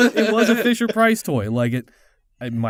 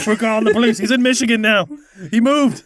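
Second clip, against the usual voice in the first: louder, higher mock threat; hammed-up warning; 4 semitones higher, 5 dB louder than usual. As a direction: operator threatening the prank caller, hammed up. Operator threatening prank kid.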